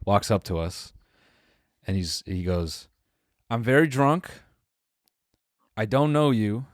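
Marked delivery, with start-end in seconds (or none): 3.5-6.7 put-on lightly accented drunk stranger, pitched up, like Borat; depressing Borat accent. Wasted guy walks up to us, lightly Borat-accented. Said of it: "depressing Borat".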